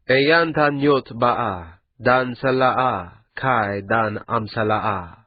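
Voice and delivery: slow, ceremonial priestly chant; ancient-tongue intoning. Acted. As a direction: intone each syllable like a rite. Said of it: "in the language of the old empire".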